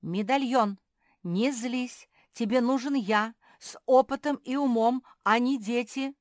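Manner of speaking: booming, insistent pitch for the job; loud proclaiming. A narrator's reading. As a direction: proclaim your merits like an orator. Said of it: "громко вещал".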